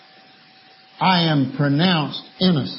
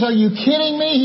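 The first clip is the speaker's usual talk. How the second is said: indignant bartender; 7 semitones higher than usual. Acted. Bartender splashed again in joke.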